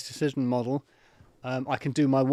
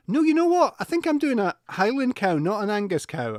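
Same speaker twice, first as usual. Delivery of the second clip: cow voice slipping; 6 semitones higher than usual. Pretend. Still in cow voice, correcting self.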